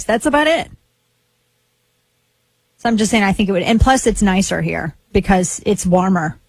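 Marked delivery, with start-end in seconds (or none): 0.0-0.7 high-pitched politician impersonation; put-on high politician's voice; Lindsey Graham impression. Shown as a demonstration. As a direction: say it higher, imitating a politician. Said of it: "I can do Lindsey Graham's voice".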